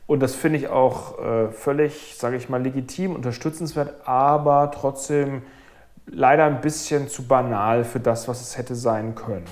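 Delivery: leicht lehrerhaft, leiser, gedämpft enttäuscht; enttäuschter Deutschlehrer. Acted. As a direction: wie ein Lehrer, der mehr erwartet hätte. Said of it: "Hast du gemerkt, wie meine Stimme sich verändert hat?". (ein Hauch enttäuschter Deutschlehrer)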